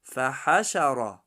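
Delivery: فحشر ending on a thick, heavy ر. Shown as a demonstration. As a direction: round out the ر in فحشر heavily. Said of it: "غوص خونده می شود".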